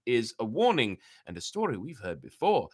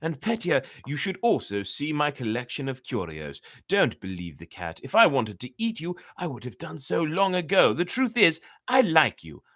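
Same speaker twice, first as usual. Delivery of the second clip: lightly voiced, raised flattering fox; persuasive fox; 4 semitones higher, 3 dB louder than usual. The fox flatters Petya to lure him, lightly voiced charm. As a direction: win his trust with false friendship. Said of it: "Then he added".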